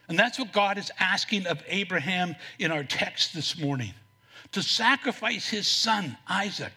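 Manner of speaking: ordinary talk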